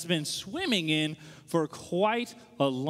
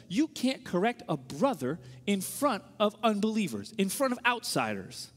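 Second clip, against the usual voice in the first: slow, emphatic mock rebuke; mad. Street preachers rebuking him for questioning them before outsiders, mad. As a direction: imitate an indignant preacher, leaning on each word. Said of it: "And they're really mad".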